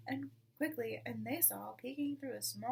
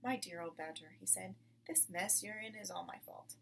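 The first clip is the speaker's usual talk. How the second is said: lower, softer fatherly tone; gentle confession; 4 semitones lower, 5 dB quieter than usual. Acted. Mr Fox to his old friend, gentle and low. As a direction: confess it kindly.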